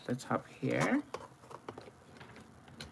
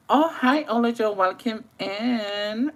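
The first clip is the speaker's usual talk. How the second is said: excited greeting; 10 semitones higher, 5 dB louder than usual. Real, not acted. To Olajo joining the stream, a high excited welcome. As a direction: greet a new viewer with joy.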